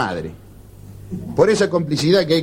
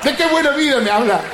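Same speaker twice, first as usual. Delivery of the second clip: higher, whiny complaint; despairing friend; 4 semitones higher than usual. Acted. Depressed man complaining to his friend, mock despair. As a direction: moan like everything's gone wrong.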